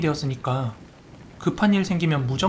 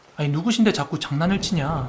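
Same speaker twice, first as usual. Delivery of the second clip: plain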